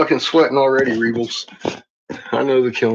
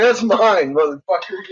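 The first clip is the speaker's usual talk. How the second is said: dog's voice; 7 semitones higher, 4 dB louder than usual. Retold or imitated. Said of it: "She said".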